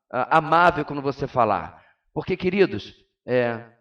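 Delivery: ordinary talk, nothing marked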